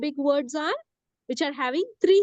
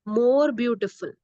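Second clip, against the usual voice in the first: "more beautiful" slowly, MORE weighted; stress on MORE. Shown as a demonstration. Teacher dictating the comparative form, slow and stressed on MORE. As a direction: lean on MORE, slow and clear. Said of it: "you are going to say".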